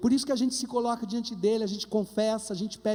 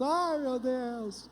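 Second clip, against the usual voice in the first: mock wail; 4 dB quieter, much slower than usual. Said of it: "começou a chorar mais alto".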